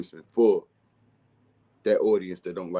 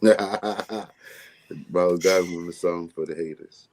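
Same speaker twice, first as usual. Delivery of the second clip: slow, drawn out through a laugh; laughing repeat; 2 semitones lower, much slower than usual. Real, not acted. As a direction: savour the line while laughing.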